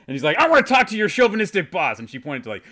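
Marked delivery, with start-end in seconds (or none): 0.4-2.0 high, loud mock outrage; irate complainer. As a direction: demand the boss as a fuming husband. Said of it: "he is pissed".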